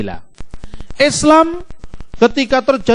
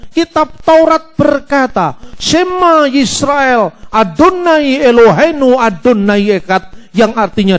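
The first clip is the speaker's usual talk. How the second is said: sermon delivery. Shown as a demonstration. Preacher expounding the Trinity from the Torah, solemn sermon delivery. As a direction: preach it to the congregation, drawing out the scripture. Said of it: "Nah, mulai saya khotbah tentang Tritunggal".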